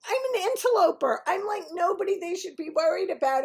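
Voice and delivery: high-pitched comic disbelief; exasperated protest. Retold or imitated. Uninvited guest downplaying herself, high exasperated protest.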